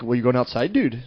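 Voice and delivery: lightly imitated northern PA lilt; Canadian-like PA accent. Imitating locals' question, Canadian-like accent. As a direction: rise at the end, Canadian-like. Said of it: "Kinda Canadian".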